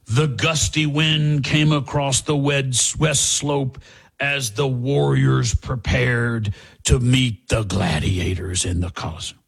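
slow, measured hint of a documentary narrator; stately mock voiceover, drawn-out words; NFL Films narrator. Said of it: "that's the videos you've seen where they'll say".

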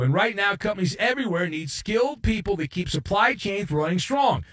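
punchy, polished radio sponsor read. Real, not acted. Host pitching an employment agency to logistics workers, ad read. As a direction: sell it briskly to working listeners.

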